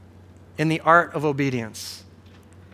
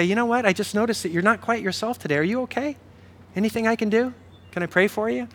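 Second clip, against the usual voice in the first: gentle concern; 3 semitones higher, 5 dB quieter than usual. Pretend. Gently checking on struggling coworker.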